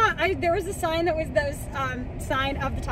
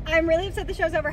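mock sad; 2 semitones higher, faster than usual. Real, not acted. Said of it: "I haven't cried yet".

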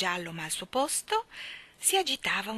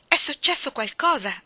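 raised, louder voice; alarmed cry; 6 semitones higher, 6 dB louder than usual. A narrator's reading. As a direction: cry out that something is wrong. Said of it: "gridò". (grido allarmato)

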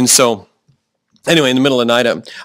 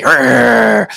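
a playful dog-like growl, a little louder; mock growl; 4 dB louder than usual. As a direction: growl like a guard dog to show sheep don't. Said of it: "sheep never say".

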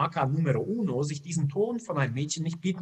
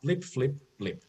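gameboy beeps; slower than usual. Acted. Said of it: "der Gameboy pflichtete ihr bei".

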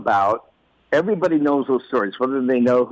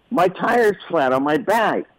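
put-on higher, slow little-kid complaint; child voice; 6 semitones higher than usual. Boy telling dad his bike tire is flat, a high slow whine. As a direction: sound like a five-year-old in trouble. Five-year-old explaining.

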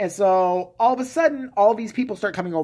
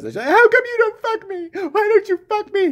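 louder mock plea; 5 dB louder than usual. Wife demands sex again, louder mock whine. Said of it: "Legit, she says".

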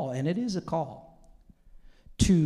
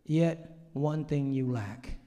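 lower, softer, slow solemn words; voice of God; 4 semitones lower, 5 dB quieter, slower than usual. Retold or imitated. God gently telling him what he lacks, solemn. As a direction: let it fall slow and grave. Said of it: "God was saying to me".

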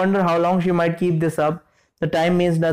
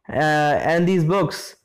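stammering. Acted. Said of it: "you stammer".

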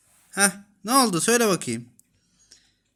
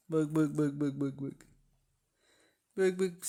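much softer, hushed calling of the kittens; 2 semitones lower, 8 dB quieter than usual. Real, not acted. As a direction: coax them over gently and softly. (yavrulara yumuşacık seslenme)

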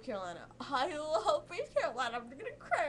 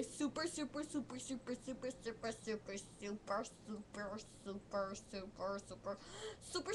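super repeated, softer and softer; fading repeats; 2 semitones lower, 10 dB quieter than usual. Real, not acted. Fan gushing she is their super fan, trailing off softer. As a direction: let each super fade away.

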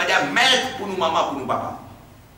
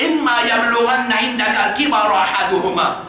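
Quran recitation; 2 semitones higher, faster than usual. Acted. Recites Quran verse in sermon.

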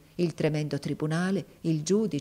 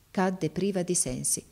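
plain reading voice

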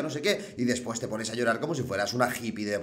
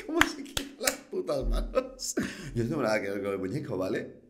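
whiny mocking echo of the rival; mocking imitation; 5 dB quieter than usual. Mimicking the rival's denial, a put-on mocking voice. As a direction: parrot him in a silly put-on voice.

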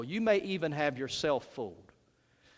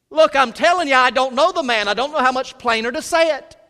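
loud, higher, insistent protest; exasperated denial; 8 semitones higher, 11 dB louder than usual. Acted. Peter insisting to a bystander he doesn't know Jesus, loud and exasperated. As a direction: shove the question away, fed up.

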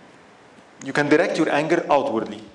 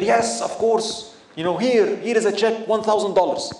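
eager donor; 5 semitones higher than usual. Pretend. Preacher mocking a donor who pays once, proud and eager. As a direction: play the proud donor handing over money.

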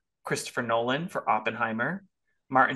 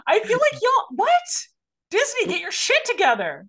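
exasperated; 7 dB louder than usual. Real, not acted. Exasperated rant at Disney.

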